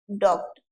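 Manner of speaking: डॉक्टर begun with a closed 'oh', 'DOKE-t'; closed o vowel. Shown as a demonstration. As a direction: round डॉक्टर to a pure o. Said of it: "ओ की मात्रा लगा दो".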